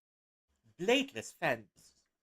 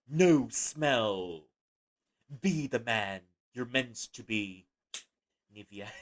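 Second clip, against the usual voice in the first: slow, mock commercial voiceover; hammed-up advert read; slower than usual. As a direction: sell it like a men's product ad. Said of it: "make this sound like one of those advertisements".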